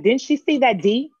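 high-pitched, slow incredulous question. Retold or imitated. Retold reaction to impossible demand.

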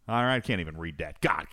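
normal talking voice

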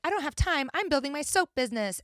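lightly mock a busy rom-com heroine; a hint of rom-com leading lady. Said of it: "the gal in the rom-com's like".

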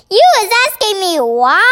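high, indignant question; incredulous cry. A narrator's reading. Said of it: "cried the B F".

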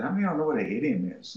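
fast question to the class; quick classroom question. Retold or imitated. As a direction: rattle it off to the students. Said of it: "And I said".

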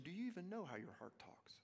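soft unvoiced whisper; whispered question. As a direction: lean in and whisper it. Intimate question.

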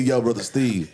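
imitating a deacon's Black American accent. Deacon addresses visiting Brother Steve, Black American accent. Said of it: "You gotta do it in the accent".

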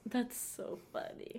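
breathy whisper, slow; hushed whispered remark; whispered aside. Real, not acted. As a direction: murmur it under your breath. Quiet aside while laughing.

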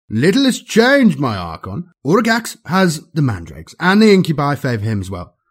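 languid, drugged courtier; drugged noble. Acted. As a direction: report lazily through a narcotic haze. Drugged Draken reports to archon.

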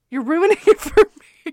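quoting husband through laughter; whiny complaint broken by a laugh; laughing mock complaint. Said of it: "he's just like".

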